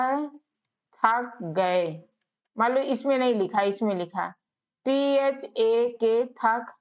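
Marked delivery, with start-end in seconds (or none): 4.9-6.7 each letter drawn out slowly; slow spelling. Shown as a demonstration. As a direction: spell the word deliberately slow. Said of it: "spelling out a word slowly". (धीरे-धीरे अक्षर बोलना)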